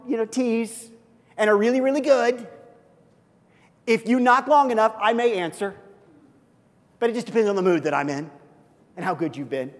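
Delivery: aloof, bargaining voice; hammed-up moody gatekeeper; mock conditional God. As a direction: sound grudging and choosy. Imagined conditional Jesus.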